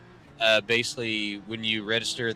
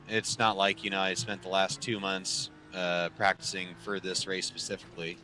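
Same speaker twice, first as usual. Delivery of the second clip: sarcastic. Real, not acted. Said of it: "That's me being very sarcastic".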